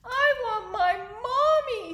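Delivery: put-on high, wailing baby owl; Bill. Littlest owl missing mother, high plaintive voice. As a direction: whine it high like the littlest owlet. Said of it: "said Bill".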